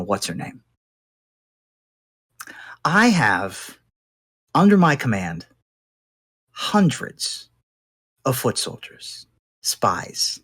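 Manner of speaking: lightly voiced captive crime boss, deliberate pauses; bargaining gang boss. Captured boss bargains with interrogator to leave the chair, measured and deliberate.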